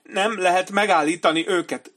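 high, loud, panicky coward's voice; frightened commander. A narrator's reading. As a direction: plead like a terrified coward. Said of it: "bizonygatta Benny Singh".

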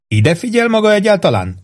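a hint of a hearty captain; captain Holmes voice. Captain praising his old cook, lightly hearty.

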